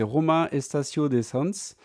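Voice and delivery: attempted Spanish accent on the name. Real, not acted. Vlogger naming a Barcelona car park for viewers, in an attempted Spanish accent. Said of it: "mon superbe accent espagnol".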